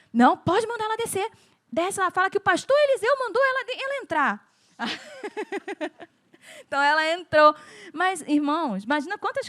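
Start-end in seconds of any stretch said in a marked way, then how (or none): 0.1-4.5 pastor's order. Retold or imitated. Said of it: "o diácono foi lá". 4.8-6.0 short laugh. Real, not acted. Laughs after telling pastor's order.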